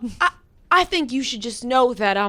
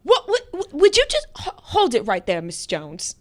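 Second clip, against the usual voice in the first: put-on terrible British accent. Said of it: "I do a terrible British accent".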